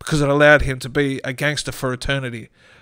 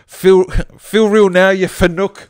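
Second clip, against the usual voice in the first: slow, higher, louder taunt; a bouncing head taunting Joey; mocking head; 5 semitones higher, 7 dB louder than usual. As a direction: gloat like a tough wiseguy. Head mocks Joey after hitting him.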